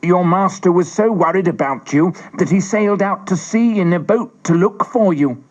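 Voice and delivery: a hint of a neighbor breaking news. A narrator's reading. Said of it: "a neighbor told Pinocchio".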